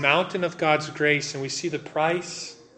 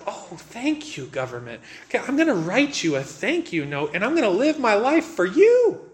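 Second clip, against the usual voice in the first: mock gushing thanks; 5 semitones higher than usual.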